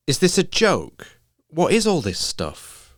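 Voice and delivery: Faye, reading the list, can't believe it; shocked disbelief. Acted. Faye to Lottie over the list, shocked and rising. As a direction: pitch jumps up in disbelief.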